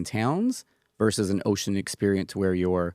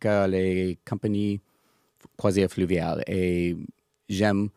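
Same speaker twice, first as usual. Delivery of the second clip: English speaker's halting French; French with a strong English accent; foreign accent in french. Real, not acted. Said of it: "mon français n'est pas bien".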